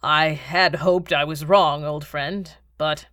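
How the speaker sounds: slow, weighty regret; regretful. Acted. Baron to his old friend, slow and regretful. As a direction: say it slowly, with sorrow for a friend. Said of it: "an expression of regret crossed his features".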